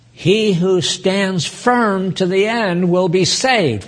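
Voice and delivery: slow, deliberate verse reading; declaimed scripture. Real, not acted. Preacher reads the critical verse to the congregation, slow declamation. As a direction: give each phrase weight and room.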